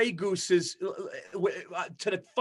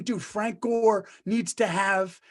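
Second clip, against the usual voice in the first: mock conviction; 3 semitones higher than usual. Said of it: "you just said with conviction".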